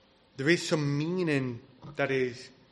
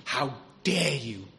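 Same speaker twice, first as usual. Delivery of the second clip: mock fury, measured rather than shouted; furious, retold; 2 semitones lower than usual. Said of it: "he was furious and he said".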